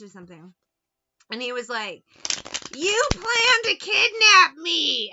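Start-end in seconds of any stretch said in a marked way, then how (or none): 2.8-5.1 high, loud, whiny wail of a man in a trance; mock his tearful whine, way up high and loud; whiny crying voice. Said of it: "doing this real whiny voice".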